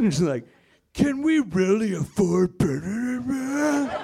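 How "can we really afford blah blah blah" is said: slow, ominous, doom-laden announcer voiceover. Mocking political attack ads, imitating their ominous voiceover. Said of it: "really ominously voiced ads".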